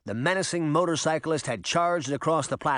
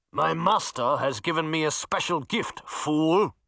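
smug, menacing villain; gloating knight; 2 semitones higher than usual. Acted. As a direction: gloat over his failed attack.

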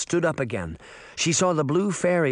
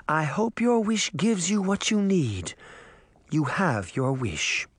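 solemn fairy; 4 semitones higher than usual. A narrator's reading. Fairy grants the wish.

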